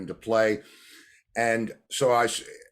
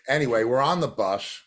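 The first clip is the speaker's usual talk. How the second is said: normal talking voice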